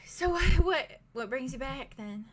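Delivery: put-on light British-Southern blend of accents; lightly voiced British innkeeper. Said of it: "ignore me if I slip into a British accent".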